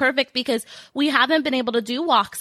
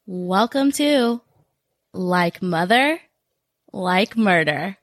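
slow announcer intro; 3 semitones lower, slower than usual. Shown as a demonstration. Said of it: "practicing the intro".

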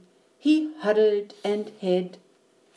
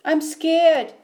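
put-on higher, louder worried child; scared child; 8 semitones higher, 5 dB louder than usual. Eddie tells Mom about the bear, scared. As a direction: voice a scared little boy.

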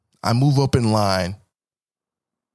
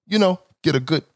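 ordinary delivery

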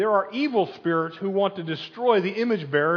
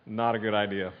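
a hint of a low worried warning; friend's warning; 7 semitones lower than usual. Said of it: "his best friends said".

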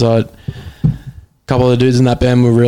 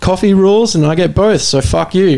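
higher-pitched defensive comeback; mock-defiant retort; 7 semitones higher, faster than usual. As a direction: argue back, mildly indignant. Retold defence against coffee teasing.

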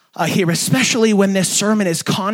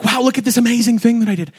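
mock boasting; 6 semitones higher, faster than usual. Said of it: "it's not like".

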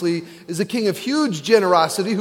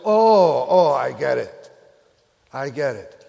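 mock realization; 3 semitones lower, 4 dB louder than usual. Disciples realizing the point.

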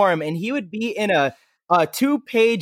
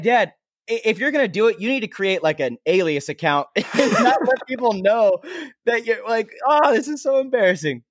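embarrassed plea to dad; 5 semitones higher than usual. Retold or imitated. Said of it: "I'm like".

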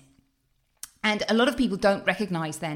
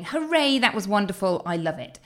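happy cheer. Retold or imitated. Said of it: "And I leave thinking".

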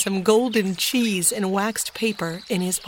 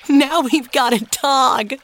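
put-on delighted little boy; 5 semitones higher, 6 dB louder than usual. A narrator's reading. Little Benny delighted with dog.

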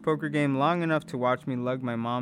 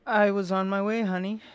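sweet mom voice; 8 semitones higher, 5 dB louder than usual. A narrator's reading. Mom answers Gabe.

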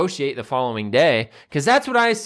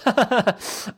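gloating laugh; 8 semitones higher than usual. Pretend. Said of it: "then that voice goes".

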